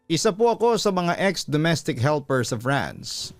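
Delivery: normal talking voice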